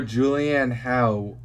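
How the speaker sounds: "Hough" pronounced like how; Hough rhymes with how. Shown as a demonstration. Host guesses at the movie star's name, "Hough" said like how. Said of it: "or Hough".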